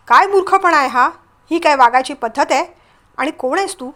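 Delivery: loud start, sharp rebuke; angry questioning. Acted. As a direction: tell off a stranger with moderate anger. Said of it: "Shirish रागाने तिला विचारू लागला".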